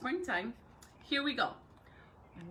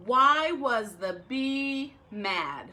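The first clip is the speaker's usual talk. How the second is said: slow joke setup; 6 dB louder, much slower than usual. Shown as a demonstration. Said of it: "slow joke setup".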